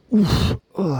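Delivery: breathless puff and groan; winded groan. Real, not acted. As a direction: groan from the effort. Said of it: "m'entendre gémir".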